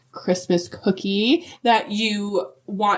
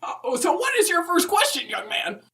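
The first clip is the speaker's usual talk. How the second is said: put-on higher, chuckling old lady voice; Mrs Claus laughing; 9 semitones higher than usual. Brushing off the host's compliment as Mrs Claus, laughing. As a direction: laugh it off like a sweet old grandma.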